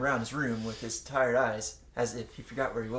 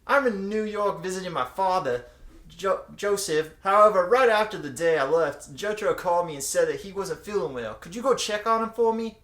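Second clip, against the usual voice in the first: a touch higher, louder pleading mom; lightly voiced Holly; 7 semitones higher, 8 dB louder than usual. Jotaro's mom asking Kakyoin to check on her son. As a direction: ask sweetly like a worried mother. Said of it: "she continued".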